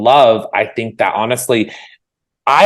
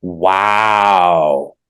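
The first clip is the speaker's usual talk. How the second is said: surprised; 2 semitones lower than usual. Real, not acted. Hearing guest is six-foot-four.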